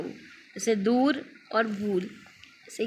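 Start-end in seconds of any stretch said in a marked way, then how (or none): 0.8-2.0 दूर and भूल stretched long and slow; slow example words. Shown as a demonstration. Teacher demonstrating long ऊ words to class, slowly. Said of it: "next देखिए उबड़ा ऊ".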